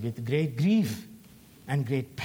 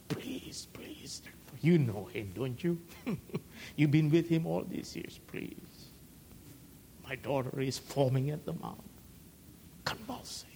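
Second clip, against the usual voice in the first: mother pleading; 4 dB quieter than usual. Pretend. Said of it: "recruit others like she did".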